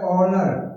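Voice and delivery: "ऑनर" begun straight on the O vowel; silent H. Shown as a demonstration. Teacher showing students the silent letter, H left unsounded. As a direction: say "ऑनर" with no H sound at the start. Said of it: "एच का sound नहीं आ रहा है".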